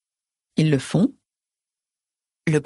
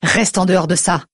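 firm. Acted. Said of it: "Je réplique sur un ton sans appel".

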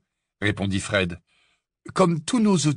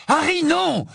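urgent cry; 13 semitones higher, slower than usual. Acted. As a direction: cut him off before he says the name. Hermione stops Harry naming Voldemort.

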